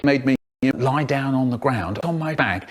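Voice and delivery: usual speaking voice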